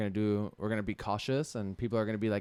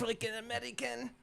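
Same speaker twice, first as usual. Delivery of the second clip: a clumsy put-on Asian accent, pitched way up and much softer; bad Asian accent; 11 semitones higher, 10 dB quieter than usual. Joking with his co-host, tries a bad Asian accent. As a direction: mangle the words in a deliberately poor Asian accent. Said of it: "That's not a good accent".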